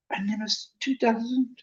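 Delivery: a light, high-pitched moan. A narrator's reading. Ron reading his friend's note, high soft moan. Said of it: "Ron moaned ominously".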